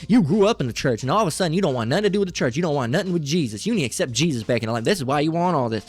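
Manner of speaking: mildly scolding, exasperated parent imitation; lightly mocked parent. Parent chiding a child who left church, lightly mocked scolding. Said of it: "That's how they talk".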